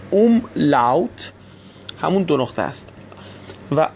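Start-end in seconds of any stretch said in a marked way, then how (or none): 0.1-1.3 اوملاوت drawn out as "um... laut"; slow syllable-by-syllable. Shown as a demonstration. Teacher repeats the German term for learners, slow and separated. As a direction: say اوملاوت slowly in two parts.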